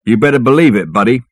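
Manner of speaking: porter's amateur film gangster voice; Bogart. Acted. Porter showing off to Bill, his best Bogart impression. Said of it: "I said in my best Bogart voice".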